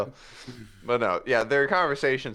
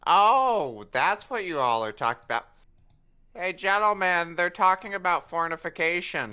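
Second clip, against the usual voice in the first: teasing announcement; 5 semitones higher than usual. Acted. Yevon announces gossip.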